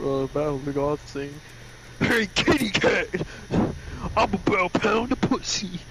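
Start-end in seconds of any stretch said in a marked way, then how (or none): 2.0-5.8 slow, higher mock-heroic call; a hint of a cartoon fighter's taunt; lightly voiced taunt. Mister Satan to Beerus in battle, mock taunting.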